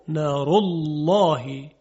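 نار الله slow, dark thick lam in الله; heavy lam after u. Shown as a demonstration. Teacher demonstrating the heavy lam after damma. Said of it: "قبل از لام الله ... ضمه".

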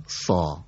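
سا said with a thick, full-mouthed heavy s and a long a; heavy letter sound. Shown as a demonstration. Teacher shows the student the heavy سا, full-mouthed. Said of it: "یه خود درشتر".

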